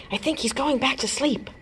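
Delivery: hushed. A narrator's reading. Whispering near sleeping baby.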